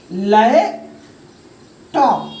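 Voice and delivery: लैपटॉप very slow, a long gap between लैप and टॉप; split into syllables. Shown as a demonstration. Teacher showing the word cut in two, लैपटॉप said as separate syllables. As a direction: break लैपटॉप into two drawn-out pieces. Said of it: "word को दो टुकड़ों में बटा है".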